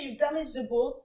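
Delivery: alarmed. Retold or imitated. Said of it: "that's how I picture him".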